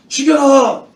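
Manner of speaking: loud, high yell; imitated furious outcry; acted mob shout. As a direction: shout the order as a stone-wielding crowd. Crowd with stones demands death.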